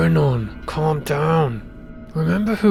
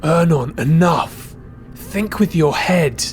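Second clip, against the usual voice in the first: raised, forceful reprimand; urgent scolding; 4 semitones higher, 3 dB louder, slower than usual. Acted. Friend reining in the offended priest, urgent scolding. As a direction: cut him off firmly, pitched up.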